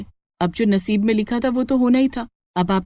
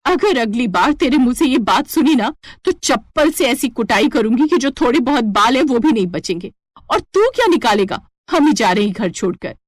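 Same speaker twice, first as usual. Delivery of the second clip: angry threat; 2 semitones higher than usual. Acted. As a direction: threaten him with the slipper. Wife threatens lecherous landlord.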